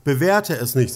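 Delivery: normal talking voice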